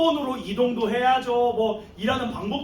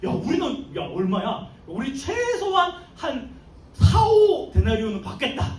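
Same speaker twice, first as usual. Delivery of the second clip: giddy expectation; 3 dB louder than usual. Retold or imitated. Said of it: "마음이 들떠있었어요".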